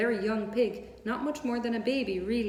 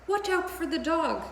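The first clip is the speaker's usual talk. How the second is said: high warning bleat; sheep crying; 9 semitones higher, 4 dB louder than usual. A narrator's reading. Sheep warning Wilbur of the dog. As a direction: cry out the warning. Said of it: "cried the sheep".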